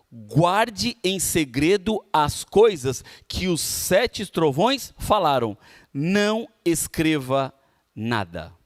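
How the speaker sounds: slow, deliberate Bible reading; scripture reading. A narrator's reading. Preacher reading Revelation to listeners, slow solemn scripture reading. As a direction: read the verse out slowly, word by word. Reads the Bible verse aloud.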